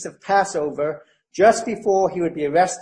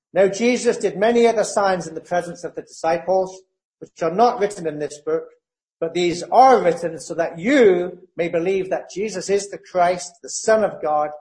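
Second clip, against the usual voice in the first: scripture reading. Acted. Reads John twenty thirty-one.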